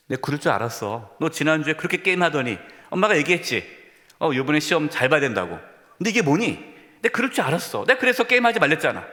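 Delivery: mock scolding mother, rising fast at the end. Mother scolding her child over bad grades, mock exasperated. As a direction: nag like a frustrated mom.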